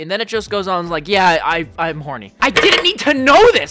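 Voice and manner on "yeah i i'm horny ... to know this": talking while chewing nuggets; words around a bite of nuggets; eating crunchy fried chicken. Real, not acted. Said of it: "Sorry, I'm eating chicken nuggets right now".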